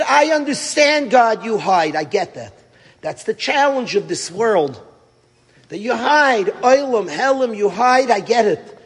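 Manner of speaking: a touch of anguished shouting; mild retold anger at God; angry plea. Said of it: "He starts screaming and getting angry and crying".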